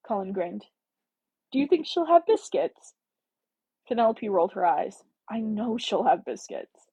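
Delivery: reading a romance novel aloud, slightly stilted; story narration. Acted. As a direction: read the chapter like an audiobook, a bit unsure. Reads a novel chapter aloud.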